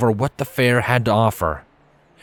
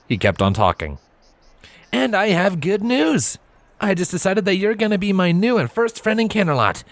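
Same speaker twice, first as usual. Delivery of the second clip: put-on higher, eager teen chatter; teen Trailblazer; 6 semitones higher than usual. Lanky teen claiming Silver as friend, higher and eager.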